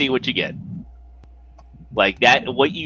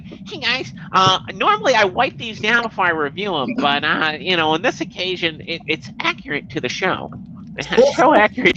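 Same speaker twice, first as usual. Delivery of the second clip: mock toy reviewer; 4 semitones higher than usual.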